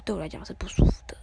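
calm. Retold or imitated. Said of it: "我就好冷静下来".

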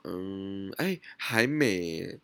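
slow, unsure "还没欸"; hesitant. Retold or imitated. Sister hesitating on the phone, slow and unsure. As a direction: hem and haw, then concede. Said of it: "她有一些犹豫".

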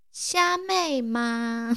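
very slow, soft bewildered repeat; stunned echo. Retold or imitated. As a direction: let the word hang in confusion. Professor stunned, repeats word.

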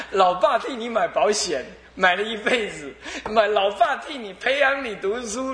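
mock-aggrieved father, laughing through it; laughing father's complaint. Dying father to son, laughing mock complaint. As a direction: ham up the old dad's grievance.

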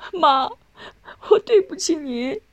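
high tearful cry with a sob. A narrator's reading. Son sees his mother at last, calls out crying. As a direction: call out to mother through tears. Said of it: "哭着叫了声".

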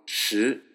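シ sliding upward like a question; second tone. Shown as a demonstration. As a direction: model シ as a rising Mandarin shi. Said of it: "このシの二声は".

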